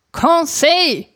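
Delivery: high impatient call across the rooms. A narrator's reading. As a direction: call him a third time, pitched well up. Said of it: "rief ich zum dritten Mal".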